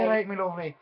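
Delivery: mock Irish accent. Friend mocking the failed Scottish impression, mock Irish accent. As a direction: put on a jokey Irish accent. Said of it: "Yeah, that sounds Irish".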